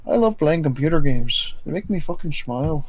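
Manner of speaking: sarcastic gushing about games; mock enthusiasm. Mock enthusiast gaming line.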